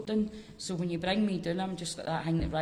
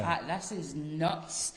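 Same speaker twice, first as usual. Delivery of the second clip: laughing; much slower than usual. Retold or imitated. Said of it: "And I just".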